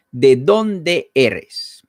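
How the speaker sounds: "¿de dónde eres?" spoken very slowly, stretching "dónde"; slow model question. Shown as a demonstration. Teacher modelling a question for the class, very slow. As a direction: draw the question out for learners. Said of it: "es la preposición".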